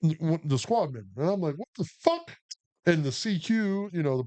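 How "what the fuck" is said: high-pitched incredulous outburst; retold disbelief. Private reacting to a slap he witnessed, incredulous. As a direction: shoot way up high in mock shock. Retelling his shock at the slap.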